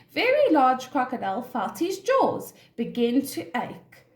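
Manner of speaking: measured, expressive storybook narration; story reading to children. A narrator's reading. Teacher reads an animal story to children, expressive storytelling. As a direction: read it clearly for young listeners.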